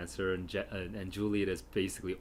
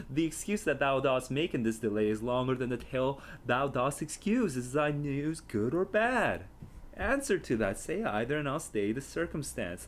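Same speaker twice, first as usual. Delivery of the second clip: put-on higher, pleading young girl demanding news; impatient Juliet; 5 semitones higher than usual. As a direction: beg the Nurse for the news. Reading Juliet's impatient speech.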